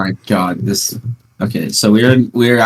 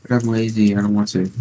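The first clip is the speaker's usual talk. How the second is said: mock lazy whine; 6 dB quieter than usual. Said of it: "You were like".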